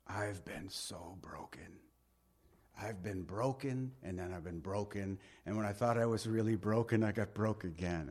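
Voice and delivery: hushed, broken whisper through tears; tearful whisper. Retold or imitated. Pastor Joe confiding to the preacher, whispering through tears. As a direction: whisper it like a man weeping. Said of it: "He immediately starts crying".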